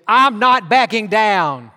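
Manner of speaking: slow, stubborn declaration; slow defiant. Retold or imitated. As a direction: dig in and refuse to yield. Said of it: "our attitude is".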